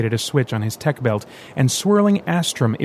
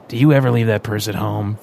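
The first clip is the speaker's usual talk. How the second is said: teasing; 3 dB louder than usual. Acted. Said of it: "Vincent teased".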